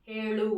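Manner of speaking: హేళు with a retroflex ళ; careful pronunciation. Shown as a demonstration. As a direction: model హేళు carefully for learners, long e then ళు. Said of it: "అలా పలకాలి, జాగ్రత్తగా పలకండి".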